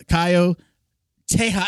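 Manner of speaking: Caio Terra with a light Brazilian accent, Terra as "TEH-ha"; Brazilian pronunciation. Shown as a demonstration. Podcast host introducing the guest's teacher, Brazilian pronunciation. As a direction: attempt the Brazilian Portuguese way of saying Caio Terra. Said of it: "should I say it like I'm a Brazilian".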